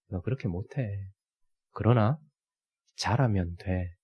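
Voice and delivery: God gently reassuring the struggling pastor; God speaking gently. Retold or imitated. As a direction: speak down tenderly as God to a child. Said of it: "하나님이 저에게 하시는 말씀처럼".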